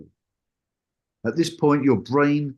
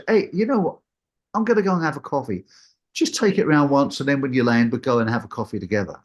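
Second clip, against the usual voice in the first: mock casual instructor; 4 semitones higher, faster than usual. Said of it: "they say it in the most casual manner".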